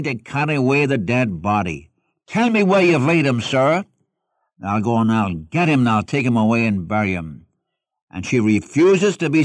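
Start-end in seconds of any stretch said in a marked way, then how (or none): 2.3-7.5 a lightly voiced, urgent plea from Mary, raised and louder; pleading Mary. Grieving Mary begs the gardener for the body, urgent plea. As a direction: beg the gardener to say where the body lies.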